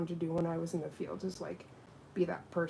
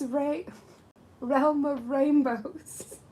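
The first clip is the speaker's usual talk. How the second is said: higher, slow and laughing through it; laughing wordplay; 7 semitones higher, 7 dB louder, much slower than usual. Real, not acted. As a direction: savor the silly R's with a laugh.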